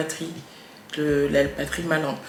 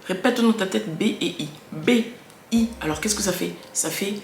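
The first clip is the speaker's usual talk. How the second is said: put-on mother coaching child. Shown as a demonstration. A mother drilling her child on B and I, firm and patient. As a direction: lead a small child through the syllable. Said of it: "mimer fort".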